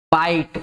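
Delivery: बाइट said as "bite" with a clear ai glide; pronouncing bite. Shown as a demonstration. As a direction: stretch the ai in बाइट to show the vowel. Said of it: "एक और word लिख रहा हूं मैं बीआईटीई".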